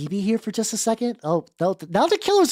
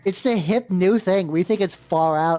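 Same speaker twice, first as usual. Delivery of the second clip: put-on valley girl. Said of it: "They grew into the Valley Girl voice".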